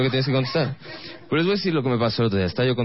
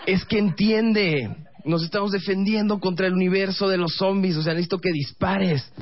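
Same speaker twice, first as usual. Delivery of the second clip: raised pitch, first words stretched out; exasperated pleading; 6 semitones higher than usual. Acted. Boyfriend arguing with girlfriend in a zombie game, exasperated. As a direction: insist in high-pitched frustration.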